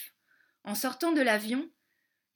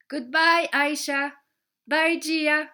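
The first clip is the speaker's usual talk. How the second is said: calling out goodbye; 4 semitones higher, 6 dB louder, slower than usual. Acted. Child calls goodbye to friends.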